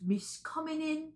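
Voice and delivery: slow, hammed-up film-quote accent; Dick Van Dyke impression. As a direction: imitate a famous movie line in a bad accent, slowly. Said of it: "Dick Van Dyke is like".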